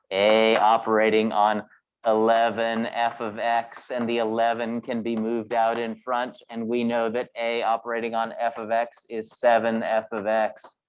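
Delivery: flat monotone robot voice. Real, not acted. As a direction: drone it like a robot. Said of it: "I sound like a robot".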